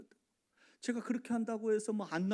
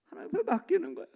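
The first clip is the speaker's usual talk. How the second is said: fast, higher and louder declaration; emphatic; 11 semitones higher, 7 dB louder, faster than usual. Acted. Pastor telling the church to entrust it to God, emphatic. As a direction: proclaim it firmly. Repeated line, whispered then loud.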